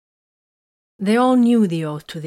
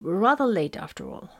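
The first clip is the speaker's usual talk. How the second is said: weak voice; 3 semitones higher than usual. A narrator's reading. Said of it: "His voice was weak".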